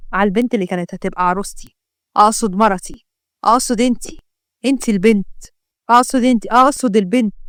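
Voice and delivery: stumbling self-corrections; flustered. Acted. Yusuf correcting his slip about his bride, flustered. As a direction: trip over the slip of the tongue. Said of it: "ومالك اتلجلجت كده ليه".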